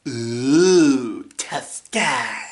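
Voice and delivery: drawn-out mocking "ooh"; character voice. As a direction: swell the "ooh", then tease. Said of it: "doing the voices and the lines".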